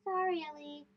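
soft, small apology from a boy who feels bad; sorry. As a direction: say sorry quietly, a little ashamed. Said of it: "Hamza felt bad".

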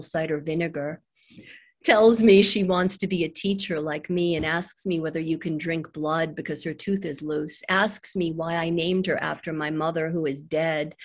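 measured recital with pauses between phrases; poem reading. Acted. Mother reading a poem for her daughter, measured recital. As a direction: let each line land, then pause.

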